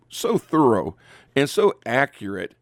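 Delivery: mock praise with a pause between compliments; sarcastic. Real, not acted. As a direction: lay on a little dry sarcasm. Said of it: "detect a little bit of sarcasm".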